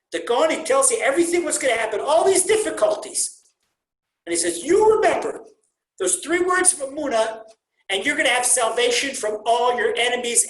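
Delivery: loud, high, urgent sermon voice; fiery preaching. Real, not acted. Preacher to congregation on the promise, loud and fervent. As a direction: preach it out at full force, rising high.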